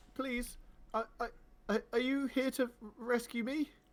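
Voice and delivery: high, tremulous, quavering voice. Voicing a captive calling out to would-be rescuers, tremulous voice as Nebra. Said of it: "a tremulous voice calling out saying".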